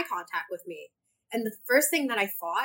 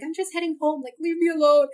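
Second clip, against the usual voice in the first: imagined snappy brush-off; 8 semitones higher, 6 dB louder than usual. Retold or imitated. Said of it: "I didn't say leave me alone".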